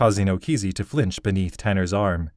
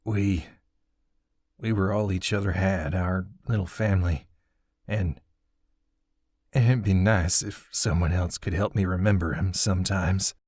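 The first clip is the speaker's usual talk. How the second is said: tearful. Acted. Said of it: "tears trickled down his cheeks".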